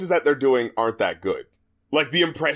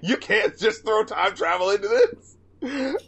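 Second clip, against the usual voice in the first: slower, laughing through it; slow laughing repeat; 5 semitones higher, slower than usual. Retold or imitated. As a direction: laugh in disbelief while repeating it. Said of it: "and I'm like".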